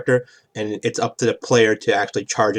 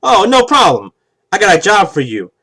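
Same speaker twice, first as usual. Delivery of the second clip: much higher, louder sly crime-boss voice; Fat Tony voice; 9 semitones higher, 7 dB louder than usual. Acted. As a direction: sweet-talk him into a job, falsely friendly. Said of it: "the D M starts voicing Fat Tony".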